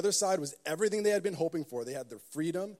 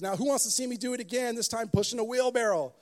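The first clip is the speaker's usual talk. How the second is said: showman call; 6 semitones higher, 3 dB louder than usual. Retold or imitated. Showman challenges the crowd.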